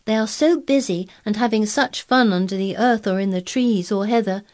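high, loud delighted telling; enthusiastic. A narrator's reading. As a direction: gush about the moor. Girl enthuses about moor.

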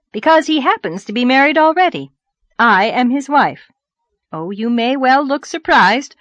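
brisk, loud, indignant wife; triumphant rosy lady. Acted. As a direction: announce yourself with relish, voice pushed up. Rosy lady reveals she's wife.

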